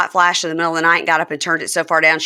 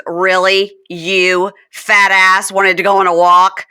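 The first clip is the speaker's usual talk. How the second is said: mocking; 4 dB louder than usual. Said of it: "She goes".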